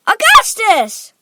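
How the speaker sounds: high, slow, loud cry; Missus Gloop. A narrator's reading. Mother crying out to her son, high and drawn-out. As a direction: stretch the name out high. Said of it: "cried Missus Gloop".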